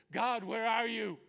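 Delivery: high, loud, drawn-out plea; desperate cry. Retold or imitated. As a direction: cry out to heaven in anguish.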